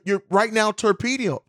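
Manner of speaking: torpedo garbled, syllables tripping over each other; stumbling over the word torpedo; tongue-tied stumble. Real, not acted. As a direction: keep tripping on torpedo, restarting it. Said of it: "getting tongue-tied on the word torpedo".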